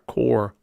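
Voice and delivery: core said as kore, with the r fully said; core sound. Shown as a demonstration. Vlogger imitating how New Yorkers start coffee. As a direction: say core with a strong r. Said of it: "like C O R".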